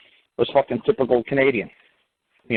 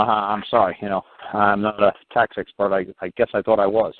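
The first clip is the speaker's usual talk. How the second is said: repeat like a broken record. Pretend. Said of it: "like a broken record".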